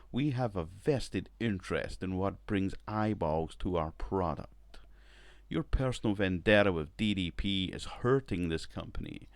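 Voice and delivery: a lightly put-on smug network suit; poor executive impression. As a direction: lean on the network's power over them. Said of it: "that was a poor accent I put on, man, a poor impression".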